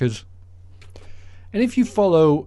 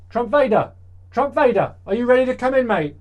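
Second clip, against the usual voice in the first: calling out; 10 semitones higher than usual. Real, not acted. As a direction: call him in from the window. Calling guest into studio.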